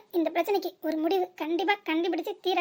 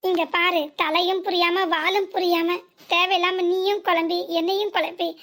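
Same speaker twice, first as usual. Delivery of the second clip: firm loud plea; 4 dB louder than usual. Acted. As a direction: make mother stop and listen. Daughter firmly pleads with mother. (உறுதியான உரத்த வேண்டுகோள்)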